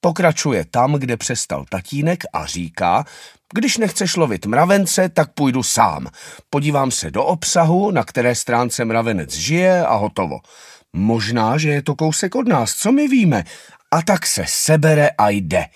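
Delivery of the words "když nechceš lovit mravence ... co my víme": defiant little anteater. Acted. Little anteater defies parents.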